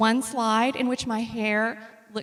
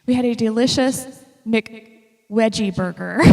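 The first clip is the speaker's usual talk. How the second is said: British V as W; 3 dB louder than usual. Retold or imitated. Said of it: "pronounces his V's as W's".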